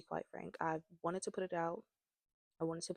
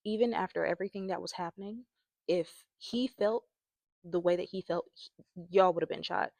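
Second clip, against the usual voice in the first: heated; 7 dB louder than usual. Real, not acted. Heated rant about shooting.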